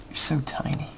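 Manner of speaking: soft whisper under the breath. Real, not acted. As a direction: murmur it, voiceless and intent. Whispering at the small target.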